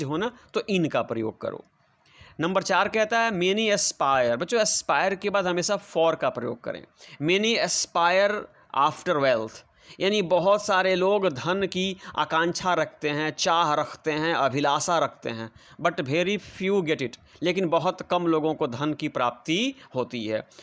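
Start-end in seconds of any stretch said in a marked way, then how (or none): 3.3-4.4 very slow, each word spaced out for the class; slow dictation. Shown as a demonstration. Teacher dictating example sentence. 7.2-9.7 very slow, each word spaced out for the class; slow dictation. Shown as a demonstration. Teacher dictating example sentence. 15.8-17.2 very slow, each word spaced out for the class; slow dictation. Shown as a demonstration. Teacher dictating example sentence.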